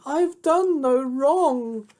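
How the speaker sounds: high, slow, loud plea; pleading cry. A narrator's reading. Snow White begging the huntsman, high slow plea. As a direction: beg for your life. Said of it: "She cried again".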